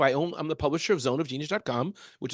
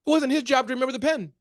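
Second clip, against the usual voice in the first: mock self-important boss, pitched up; big-boss attitude; 9 semitones higher, 4 dB louder than usual. Showing the UN boss's attitude, haughty mock indignation. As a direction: lay on the boss's attitude, stressing MY fault. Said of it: "how his attitude was".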